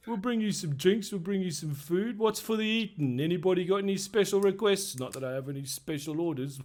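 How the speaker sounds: a sly barkeep eyeing the gold coin; innkeeper voice. Acted. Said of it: "he looks over at you and he says".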